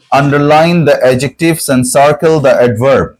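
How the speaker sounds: very slow, careful classroom reading; slow dictation. Shown as a demonstration. Teacher reading the worksheet instruction to students, slowly. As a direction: spell it out slowly for the pupils.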